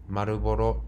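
put-on 「マルボロ」 said as Japanese English, ma-ru-bo-ro, with a heavy accent. Traveler pointing at cigarettes for a Mexican cashier, with a Japanese-English accent. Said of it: "日本人英語のマルボロ発音でした".

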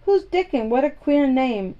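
quick high curious question; a boy's high, curious "who's that?"; curious surprise. Acted. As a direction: pounce on the strange name. Colin curious about Dickon.

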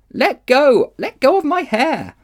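high, loud cry to be let go; frantic shout. Acted. Polly shouts at the Witch holding her hair. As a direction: shout it out in pain and panic.

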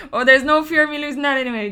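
laughing and talking fast. Real, not acted. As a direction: laugh through the words. Laughs at teasing about her accent.

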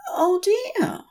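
high, faltering angel voice; stammering Aziraphale. A narrator's reading. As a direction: let the pride falter. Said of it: "stammers Aziraphale".

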